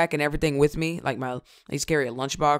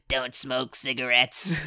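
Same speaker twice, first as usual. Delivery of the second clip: slow, lower put-on voice; mock warning voice; 3 semitones lower, 4 dB quieter, slower than usual. Jokingly warning viewers off cigarettes, slow put-on low voice. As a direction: drag it out in a goofy low voice.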